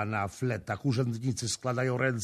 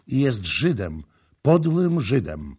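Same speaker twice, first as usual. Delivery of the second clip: slowing, louder scorn; contemptuous accusation; 2 semitones higher, 5 dB louder than usual. Acted. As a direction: drive the last words home. Prince accuses her with contempt.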